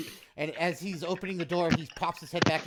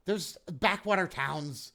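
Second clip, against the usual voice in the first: high, fast nervous bluster; a flustered mayor, rushing his words; rushed blustering dismissal; 5 semitones higher, 4 dB louder than usual. Acted. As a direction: brush it off in a panic.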